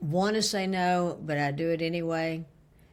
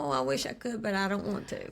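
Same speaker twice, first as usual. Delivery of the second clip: repeating the quote; 4 semitones higher, 3 dB quieter than usual. Retold or imitated. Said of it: "Say that one more time".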